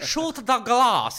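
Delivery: hammed-up slow villain yell; mock villain shout. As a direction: bellow it slowly like a fed-up villain. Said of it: "retold villain order".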